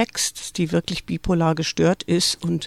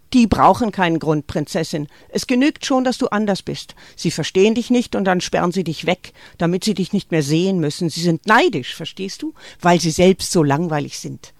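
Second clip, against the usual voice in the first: louder, intense mother confiding to her daughter; a mother warning her girl against the world, louder and urgent; Greta urging; 4 dB louder than usual. Acted. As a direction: press it on her like a secret truth. Greta talks to daughter Marie.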